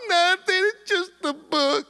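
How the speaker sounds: high, imitated weepy voice; mock sobbing through the words; tearful. Crying daughter explains to her dad, tearful. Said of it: "she's crying".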